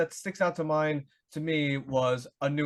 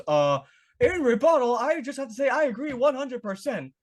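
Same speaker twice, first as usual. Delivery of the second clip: Richfield voice; 7 semitones higher, 3 dB louder than usual. Retold or imitated. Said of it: "And then B P goes".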